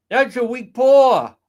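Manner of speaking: high, loud Fall River mimicry; mock her accent on the repeated line. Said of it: "with the fucking Fall River accent".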